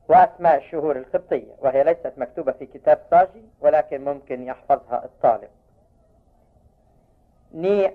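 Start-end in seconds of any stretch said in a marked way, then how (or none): none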